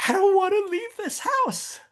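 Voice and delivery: wife torn about selling, in a high imitating voice; tearful wife. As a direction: squeak it out like a wife who can't bear to leave her home. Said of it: "and she's like".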